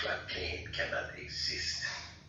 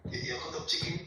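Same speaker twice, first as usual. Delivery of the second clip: higher-pitched playful Jamaican voice; mock Jamaican accent; 9 semitones higher, faster than usual. Guest asks Jason about the chopping noise, in a higher mock Jamaican accent. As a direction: tease Jason in a put-on island accent.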